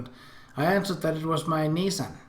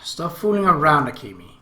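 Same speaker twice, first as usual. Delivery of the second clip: stern scolding; 6 dB louder than usual. Acted. Sora scolds Akemi firmly.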